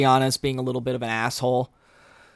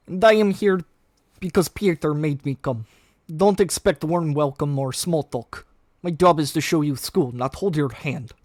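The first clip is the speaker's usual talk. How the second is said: put-on dry, cutting sarcastic teen; unimpressed and cold; edgy sarcasm; 2 semitones higher than usual. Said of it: "kind of an edgy sarcasm, uh, voice here".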